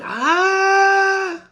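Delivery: high, loud, slow furious witch; enraged witch scream. Acted. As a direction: rage at the beast who let it burn. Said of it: "she's screaming".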